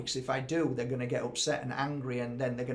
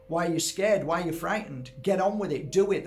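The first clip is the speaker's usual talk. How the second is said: exasperated scolding; 3 semitones higher, 5 dB louder than usual. Retold or imitated. Telling off the person he helps.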